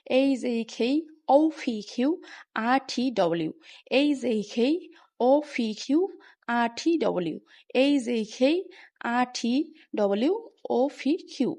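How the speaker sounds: এ কে with glides, পি and টি aspirated; letters chanted in threes, আর without its r; sequential pronunciation drill. Shown as a demonstration. Teacher reads all the changed letters together, pronunciation drill. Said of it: "ধারাবাহিকভাবে সবগুলো".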